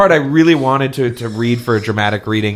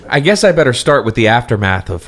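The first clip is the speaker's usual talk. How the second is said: dramatic reading. Acted. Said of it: "this leads into my dramatic reading".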